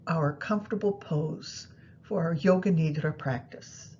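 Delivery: ordinary delivery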